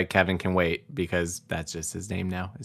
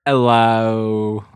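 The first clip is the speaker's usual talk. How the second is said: attempted British accent; 3 semitones higher, 5 dB louder than usual. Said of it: "I can't do the accent".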